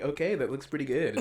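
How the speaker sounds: lightly imitated reviewer's approving catchphrase; a hint of a pleased, easygoing taster; Steve1989MREInfo impression. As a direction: lightly mimic his mild approval. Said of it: "He always goes like".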